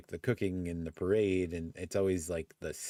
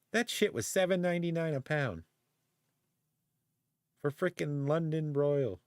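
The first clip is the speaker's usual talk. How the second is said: much higher-pitched incredulous complaint; indignant disbelief; 9 semitones higher than usual. Real, not acted. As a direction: protest the outrageous price, pitch up. Complaining about a ridiculous price.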